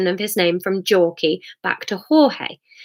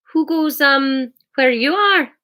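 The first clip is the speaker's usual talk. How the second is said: Hamish voice; 6 semitones higher, slower than usual. Acted. Hamish calling back.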